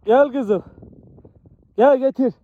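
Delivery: upbeat praise for a good dog; talking to a dog. Real, not acted. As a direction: cheer the dog on and call her over. Praising and calling hunting dog.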